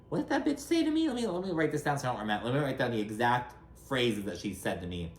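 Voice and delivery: mock indignant note-taking. Host imagines housewife rushing to note an insult, mock indignant. Mimicking Lisa scribbling notes in the moment.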